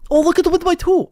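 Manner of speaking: put-on botched quick Australian accent; half-hearted Australian accent. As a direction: toss off a weak Australian impression of Moody. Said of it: "I can't do a Moody. I can't do an Australian impression".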